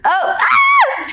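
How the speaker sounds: sudden startled shout; loud outburst. Real, not acted. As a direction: yelp out in alarm. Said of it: "Sorry, I'm being loud".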